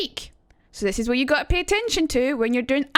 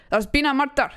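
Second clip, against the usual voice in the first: cheesy Taggart-style Scottish line; Scottish accent demo. Shown as a demonstration. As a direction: hit the Scottish R's in murder. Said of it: "cheesy one from Taggart".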